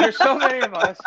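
put-on laughing through a North London accent. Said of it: "doing an North London accent".

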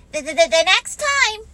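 high, loud stuttering Piglet voice; anxious little creature tripping on THE; nervous stammer. Acted. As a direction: stammer the message out urgently. Piglet stammers the message to Pooh.

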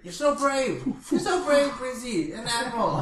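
high, giggling mock admiration; laughing mock praise. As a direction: tease him with gushing praise.

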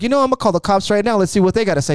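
high, fast mock warning; imitating a heated, rushed ultimatum; retold threat. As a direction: play a manager threatening to bring in police. Acted quarrel, threat to call police.

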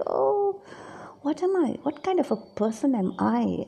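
high, dismayed "oh", then dropping back; acted pang of self-disgust; self-reproach. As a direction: question yourself in mock dismay. Acts out dismay at own hypocrisy.

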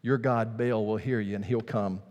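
Elijah mocking Baal's prophets, fading down. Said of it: "he's really kind of mocking them".

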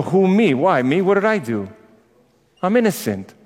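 hammed-up "who, me?" act; mock innocence. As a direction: plead like someone wrongly accused. Mimics the self-pitying innocent victim.

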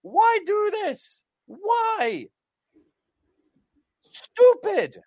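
high-pitched, loud outcry; exasperated shouting. Real, not acted. Podcast host fed up with a wrestling decision, exasperated shout. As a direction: yell it in disbelief, voice shooting up.

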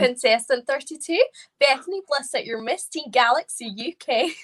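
lightly imitated pageant announcer; Dion Robertson. Doing the requested impression for friends, pageant announcer voice. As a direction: announce the contestant like a pageant host. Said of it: "give us a little Dion Robertson".

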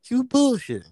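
high, loud incredulous; can't believe it, half shouting; disbelief. Real, not acted. Shocked at absurd headline.

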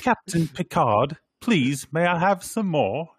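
high, loud pleading put-on voice; mock accent impression. Teasing the co-hosts' impressions, high mock-accented begging. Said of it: "what you are doing".

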